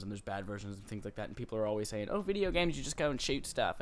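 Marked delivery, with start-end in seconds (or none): 2.1-3.8 high-pitched mock complainer; mocking critics' voice. Host imitating people who dismiss video games, mocking voice. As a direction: put on a silly voice for clueless game critics. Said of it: "why they say it in that voice".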